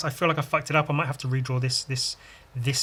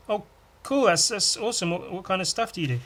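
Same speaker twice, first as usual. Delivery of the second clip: mock stranger voice; 7 semitones higher than usual. Voicing a stranger asking.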